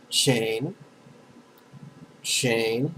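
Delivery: "Chain" drawn out with a rising tune; pronunciation demo. Shown as a demonstration. Teacher gives students a syllable to repeat, pronunciation demo. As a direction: say "chain" slowly as a lone syllable, lifting the end. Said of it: "remind you how to pronounce Chenrezig".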